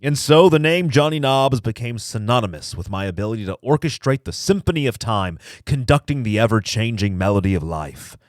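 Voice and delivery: slow, deliberate storyteller delivery; measured, portentous narration; mock-solemn story reading. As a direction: savor each phrase like a grand tale.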